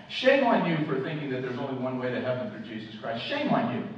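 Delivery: scolding, each "Shame on you" punched at the start; accusing culture. Acted. Preacher voicing the culture shaming believers, accusing. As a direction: hammer out a repeated public rebuke. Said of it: "you have a culture around us that says this".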